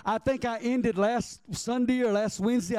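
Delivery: usual speaking voice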